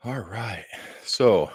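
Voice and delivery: winded, catching breath; out of breath, speaking softly; after a workout. Real, not acted. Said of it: "I'm still catching my breath".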